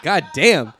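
loud laughing exclamation; startled laugh burst out; startled laughing outburst. Real, not acted. Startled by own hiccup.

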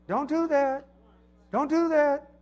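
mock losing patience with the kids; exasperated parent. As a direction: parent snapping, pitch climbing. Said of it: "you should never tell your kids".

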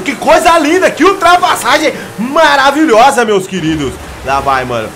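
high, loud race-caller hype; cheering commentary with a laugh; excited commentary. Real, not acted. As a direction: sell the overtake like a TV narrator. Hyped commentary of an overtake.

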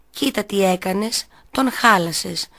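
ordinary delivery, nothing marked

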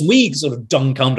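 usual speaking voice

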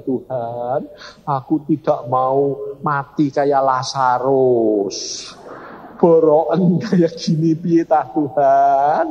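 slow, drawn-out mock wail; retold lament with long stretched words; tearful plea. Sick wife crying to God about her leg, tearful. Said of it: "Dia nangis, dia bilang".

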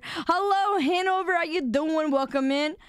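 bright streamer welcome, pitch lifted; upbeat greeting. Real, not acted. Streamer welcoming a new chatter, upbeat and lifted. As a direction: sing out a hello to the new viewer.

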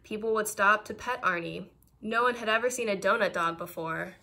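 put-on gentle storybook narration for kids; reading to children. A narrator's reading. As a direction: read it like a bedtime picture book. Reads picture book aloud.

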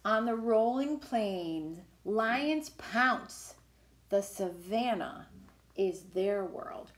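lively, sing-song picture book reading; reading to children. Acted. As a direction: read it like a storybook for little kids. Reads picture book aloud.

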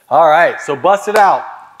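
loud push to get going; loud urging. Real, not acted. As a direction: call out to the room. Coach urging room to start.

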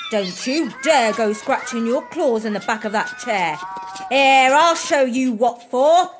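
shrill, furious shouting cat; angry shout. Acted. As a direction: scold them off the furniture. Maddie shouting cats off the sofa.

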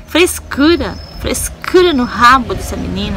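loud mock scorn, lightly acted; a hint of a sneering online critic; imitated dismissive critic. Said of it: "muitos vão ver esse vídeo, vão falar assim".

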